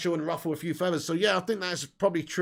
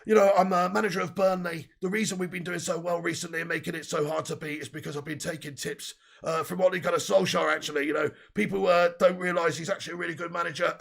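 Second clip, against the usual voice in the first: Sean Dyche impression. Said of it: "Do the Daichi accent".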